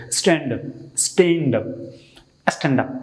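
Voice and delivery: স্ট্যান্ড আপ said with an open a sound; স্ট্যান্ড আপ with a flat English a, rhythm lifting; correct English pronunciation. Shown as a demonstration. Teacher demonstrating the right স্ট্যান্ড আপ to students, clear correction. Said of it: "মানে একটু rhythm উপরে উঠবে".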